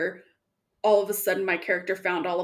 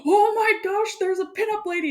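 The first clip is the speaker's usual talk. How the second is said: mock surprise; 12 semitones higher, 3 dB louder than usual. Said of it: "I was like".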